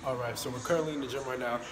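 distant, echoey room sound; recorded far off in a gym; echoing gym. Real, not acted. Filming in the gym.

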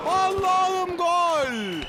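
slow, stretched goal scream; screaming football commentator. Acted. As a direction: drag out the goal cry. Goal call in football game.

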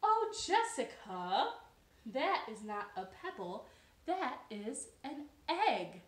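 a hint of a patient, knowing elder; wise frog. Marilyn the wise frog correcting Jessica, lightly knowing. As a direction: explain it gently, slowly. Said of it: "who was very, very wise".

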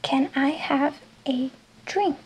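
slow, careful English question; English model sentence. Shown as a demonstration. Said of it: "la palabra straw".

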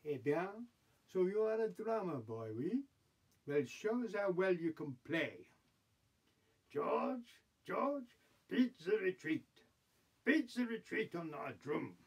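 lightly voiced French emperor; French-accented Bonaparte. Bonaparte testing a captured drummer boy, French accent. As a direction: give orders with a comic French accent.

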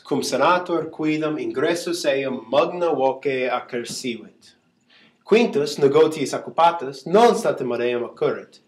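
reading Latin aloud to students; Latin class read-aloud. Shown as a demonstration. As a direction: read out the Latin passage as a teacher would. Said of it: "just read this off like I would".

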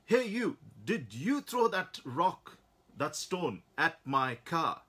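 loud high angry challenge, slowing down; furious. Acted. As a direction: confront the kid, seething. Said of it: "really furious".

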